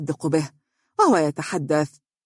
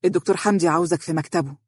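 quick, matter-of-fact message; hurried; faster than usual. Acted. Secretary summoning lawyer to the boss, hurried. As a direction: get the message out fast. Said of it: "وقالت بسرعة".

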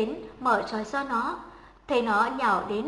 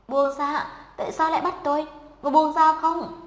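higher, rising cry to be let go, loud on the last line; screaming; 5 semitones higher, 4 dB louder than usual. A narrator's reading. Tied-up girl cries out at her captors, higher and louder. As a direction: struggle and cry out to be freed. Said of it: "Nó thét lên".

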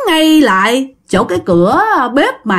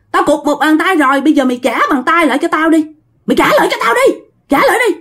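mildly menacing demand, climbing higher in pitch; fierce, menacing growl; 4 semitones higher than usual. Acted. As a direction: press the demand harder as the pitch rises. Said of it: "nói gằn gằn theo kiểu hung dữ".

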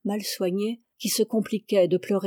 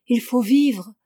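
urging; 2 semitones higher, 5 dB louder than usual. A narrator's reading. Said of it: "sa voix disaient".

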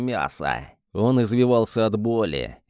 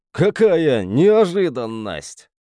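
gloating villain; 4 semitones higher, 4 dB louder, slower than usual. Acted. Maniac gloats over fallen hamster.

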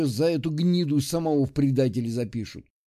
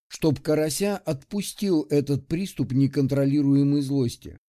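ordinary delivery, nothing marked

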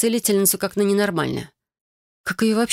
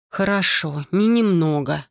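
со вздохом; slower than usual. Acted. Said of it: "вздохнула я".

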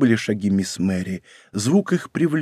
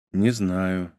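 absent sigh; 4 semitones lower, 5 dB quieter than usual. A narrator's reading. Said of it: "рассеянно и со вздохом отвечал Рауль".

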